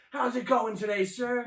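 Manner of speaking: high, playful customer-service voice; joking mock-formal greeting. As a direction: greet a relative as if a customer, hamming it up. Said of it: "You know, dicking around".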